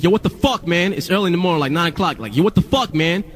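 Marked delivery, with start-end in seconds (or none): 0.0-0.9 high-pitched, incredulous dude voice; put-on exasperated street talk; outraged label guy. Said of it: "He's a white dude who acts black". 2.4-3.2 high-pitched, incredulous dude voice; put-on exasperated street talk; outraged label guy. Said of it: "He's a white dude who acts black".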